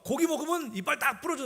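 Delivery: put-on high kid's warning; child's voice. Son warns the other kids, high child voice. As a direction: say it like a little boy scaring friends. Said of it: "근데 얘가".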